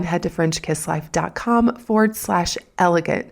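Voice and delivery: normal talking voice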